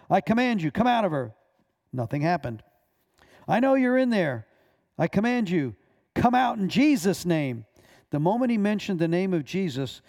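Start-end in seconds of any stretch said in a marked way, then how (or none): 0.1-1.3 loud and higher, demanding; louder command. Retold or imitated. Pastor ordering the spirits out of the woman, louder. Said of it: "his voice grew louder". 3.5-7.6 loud, higher and slowing on the name; loud command. Retold or imitated. Pastor shouting at the demon in Jesus' name, loud. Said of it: "his voice grew louder".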